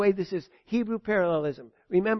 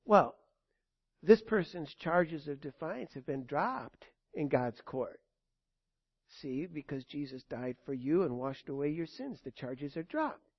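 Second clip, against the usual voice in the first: soft reassurance; 4 semitones lower, 5 dB quieter than usual. Acted. Peace answers softly.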